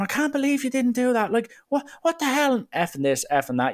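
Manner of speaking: high, shrieking, screaming tirade. Retelling a girlfriend screaming at her man who can't get on the flight: imitating a girlfriend screaming. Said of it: "The girlfriend starts screaming at him".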